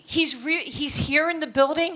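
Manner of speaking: stammering, high incredulous question; can't-believe-it rising question; stunned disbelief. Retold or imitated. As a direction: stumble over it, pitch climbing. Stunned on learning Ali is there.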